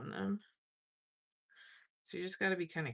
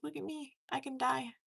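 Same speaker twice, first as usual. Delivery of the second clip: mimicking a comedy character, pitched up; Stewart; 6 semitones higher than usual. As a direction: voice the pen as a high-pitched little show-off. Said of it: "that's what that pen was like".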